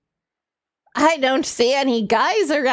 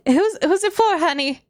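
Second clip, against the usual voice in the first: grandma voice; 4 semitones higher than usual. Acted. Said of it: "I was doing grandma voice".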